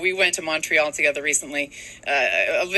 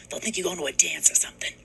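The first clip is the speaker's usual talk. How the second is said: mother voice; 3 dB quieter than usual. Retold or imitated. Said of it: "My mother's like".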